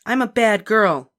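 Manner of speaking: put-on slow, high, loud proud child; winning smile. A narrator's reading. Ramona charming the librarian, high and proud. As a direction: say it cheerfully proud. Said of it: "smiling winningly at the librarian".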